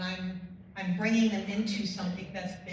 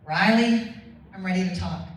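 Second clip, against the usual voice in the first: loud, booming imitated Southern voice; Southern accent; 10 dB louder than usual. Mentor finally calls after seven years, imitated Southern accent. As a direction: imitate a Southern mentor announcing his decision. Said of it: "his Southern accent".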